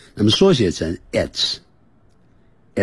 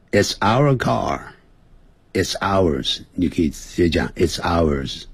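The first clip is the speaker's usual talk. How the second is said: slow model reading. Shown as a demonstration. Reads dialogue for repetition.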